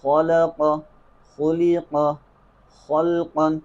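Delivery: خلق with a moderately full kh; Quran word practice. Shown as a demonstration. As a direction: recite خلق with the correct kha. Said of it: "قرآن پاک میں آپ پڑھیں". (خلق درست خا کے ساتھ)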